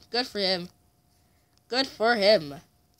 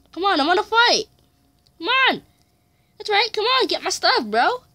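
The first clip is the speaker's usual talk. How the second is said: taunting shout; 11 semitones higher, 7 dB louder than usual. Real, not acted. Taunting opponent to fight.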